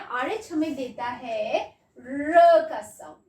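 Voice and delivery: slow, stressed teacher explanation; drawn-out teaching of the sound; teaching emphasis. Shown as a demonstration. Teacher slowly telling children the rh sound. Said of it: "आरएच हमें कौन सा sound देता है".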